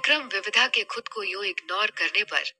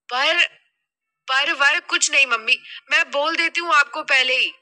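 higher, insistent daughter voice; protesting daughter; 4 semitones higher, 4 dB louder than usual. Acted. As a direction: cut mother off with a firm protest. (बेटी की ज़िद भरी आवाज़)

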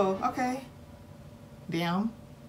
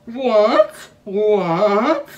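stunned repeated what; 4 dB louder, much slower than usual. Real, not acted. Reacting to shocking story.

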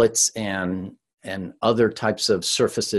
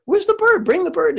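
gleeful high call, much louder, like a showman; calling for the bird; 4 dB louder than usual. Retold or imitated. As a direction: shout it out to the room, much higher. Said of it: "part of his shtick is".

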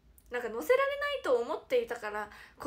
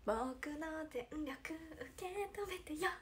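whispered line; 4 semitones higher, 6 dB quieter, slower than usual. Acted. Reads a fan line aloud.

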